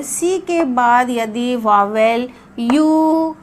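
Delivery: teacher spells out each word slowly for the class; slow it right down so pupils can follow; slow, careful dictation. Shown as a demonstration. Teacher to class, slow careful dictation. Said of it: "ध्यान से सुनिए".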